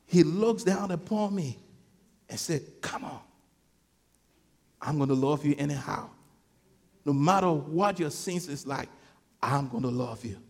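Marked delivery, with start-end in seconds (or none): 2.8-10.4 tender reassurance. Acted. Voices God's reassuring love.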